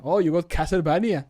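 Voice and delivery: normal talking voice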